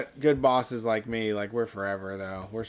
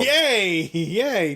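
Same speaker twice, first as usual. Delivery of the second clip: high, loud playful cheer; excited cheer; 6 semitones higher, 4 dB louder than usual. Acted. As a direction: cheer it like a party. Cheering a lawsuit win.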